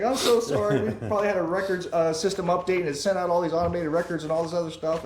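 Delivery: high, giggly retelling of the clerk's apology; laughing apology. Retold or imitated. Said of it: "she's laughing and she's just like".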